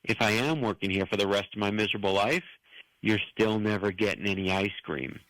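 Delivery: low, even and unbothered; calm comeback. Retold or imitated. Teen server calmly answering a screaming customer, cool and low. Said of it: "I looked at her very calmly and I said".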